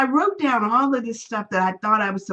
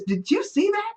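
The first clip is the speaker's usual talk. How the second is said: hushed, high and eager, a conspiratorial "did you see that"; excited whisper; 9 semitones higher than usual. Retold or imitated. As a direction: lean in and share the secret. Lady whispers behind shut door.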